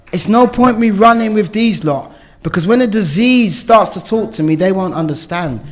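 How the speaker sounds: fervent plea; earnest appeal. Real, not acted. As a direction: drive it home to the room. Urging fellow addicts.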